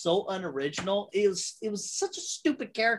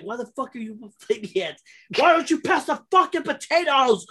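laughing through a mock line; 4 semitones higher, 3 dB louder than usual. Mocking a character line, laughing.

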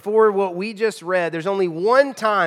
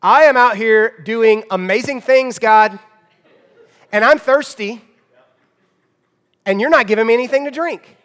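loud, demanding mock tantrum at God; hammed-up indignant prayer, higher and louder; temper tantrum; 4 semitones higher, 8 dB louder than usual. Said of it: "Samson is throwing a temper tantrum to God".

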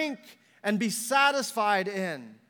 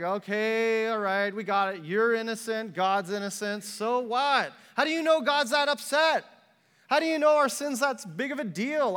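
eye-rolling dismissal; 3 semitones higher than usual. Acted. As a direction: roll your eyes through it, then challenge. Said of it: "Israel's just kinda rolling their eyes".

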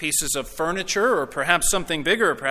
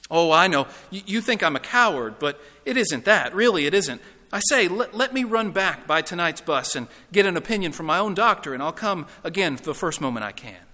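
flustered, insistent excuses; cowardly ghost wriggling out of it; defensive ghost; 3 semitones higher, 5 dB louder than usual. Acted. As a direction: plead your case with stammered urgency. Plays the ghost making excuses.

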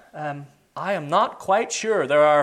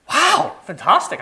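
high, drawn-out amazed wow; retold awe, stretched out; delighted wow; 10 semitones higher, 3 dB louder, slower than usual. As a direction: gush a slow, high wow. Acted delighted reaction in testimony.

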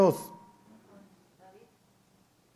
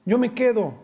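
higher, earnest offering himself; acted Judah; 6 semitones higher than usual. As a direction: say it as a repentant brother stepping forward. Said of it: "Judá ... dice". (Judá arrepentido ofreciéndose, voz alta y sincera)

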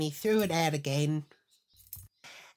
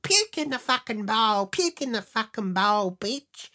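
raised, higher, loud jeering orders; mock bullying yell; 6 semitones higher, 6 dB louder than usual. Men ordering the woman about, imitated as a loud bullying chant. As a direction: act out a bully barking orders. Acting out men's abusive orders.

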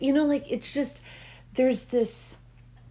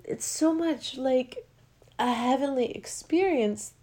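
close to tears; 5 semitones higher than usual. Real, not acted. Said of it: "I wanna cry right now".

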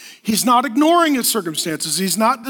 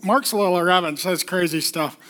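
low, softer mock-critic voice; disapproving churchgoer; 8 semitones lower, 4 dB quieter, faster than usual. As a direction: imitate a quietly disapproving church visitor. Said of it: "be like".

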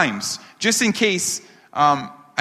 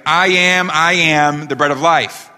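loud doubled start, as if stuttering; mock stutter; 4 dB louder than usual. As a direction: playfully imitate someone stuck repeating himself. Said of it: "does Jesus have a stuttering problem".

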